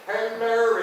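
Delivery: normal talking voice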